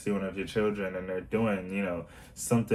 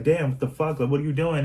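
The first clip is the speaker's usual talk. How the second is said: higher, louder, irritated what the fuck; mock road rage outburst; 7 semitones higher, 5 dB louder than usual. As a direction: play the driver cut off in traffic, fed up. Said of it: "it feels like aggression".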